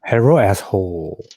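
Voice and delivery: hammed-up fake Asian accent; mock Asian accent, r for l. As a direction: greet him in a caricature Asian accent. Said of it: "go up to Scott and be like".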